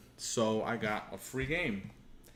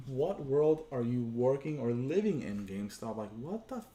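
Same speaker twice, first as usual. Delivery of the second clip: angry disbelief. Retold or imitated. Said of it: "I was so pissed off".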